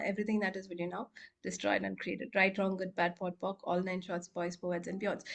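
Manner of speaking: low-key, quick rote recital; soft, practised rote formula; clearing statement recitation. Real, not acted.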